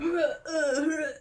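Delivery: mimicked rough tossing noises; imitated rummaging grunts. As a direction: grunt as if flinging clothes out. Imitates officer flinging luggage out.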